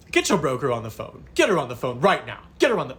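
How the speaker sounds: fast, demanding husband's orders; rapid bossy commands, hammed-up; barking orders. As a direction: bark it at her like she's a dog. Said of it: "just talking to me like I'm a fucking dog".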